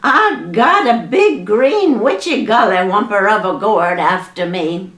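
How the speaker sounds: hollering. Acted. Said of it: "Aunt Molly hollered".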